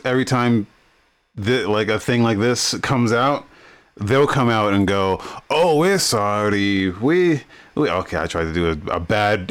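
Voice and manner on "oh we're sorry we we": badly faked French accent. Company apologizing after a controversy, in a bad French accent. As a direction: attempt a French accent and botch it. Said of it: "tried to do a bad French accent".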